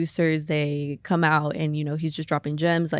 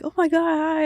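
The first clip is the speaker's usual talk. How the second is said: high, bubbly greeting; excited fan greeting; 11 semitones higher than usual. Retold or imitated. Quoting a sweet fan's greeting, high and bubbly. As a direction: squeal a hello like an excited fan.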